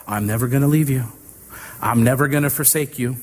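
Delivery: quick, conversational "I'm never gonna"; casual paraphrase. Shown as a demonstration. Preacher restating God's promise in casual, quick words. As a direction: toss it off like everyday speech. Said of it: "He's having to repeat himself".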